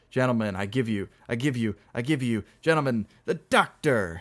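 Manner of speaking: halting toast building to a loud shout; shrieked toast. Acted. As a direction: stumble up to a high, loud finish. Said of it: "shrieked Dolt".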